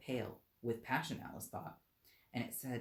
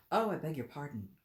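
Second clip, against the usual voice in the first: hasty cry; 3 semitones higher, 5 dB louder than usual. Acted. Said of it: "cried Alice hastily".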